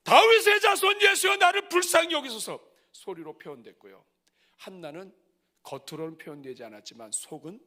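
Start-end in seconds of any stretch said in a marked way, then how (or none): 0.0-2.6 high, loud pleading cry. Acted. Bartimaeus calling to Jesus on the roadside, loud pleading cry. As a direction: beg loudly like Bartimaeus. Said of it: "바디메오는".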